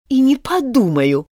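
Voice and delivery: huffy refusal, stress on не; offended mouse turning Alice down. Acted. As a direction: refuse in a hurt huff. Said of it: "сказала обиженная мышь".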